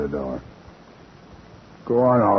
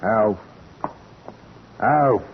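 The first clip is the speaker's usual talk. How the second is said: raised calling voice; 3 semitones higher than usual. Acted. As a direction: call the name across the basement. Calling into the basement.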